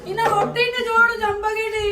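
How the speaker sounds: calling out, then loud tattling; shouted complaint. Real, not acted. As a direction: cry out for help and report him. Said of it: "ఎందుకు అరుస్తుర్రు?".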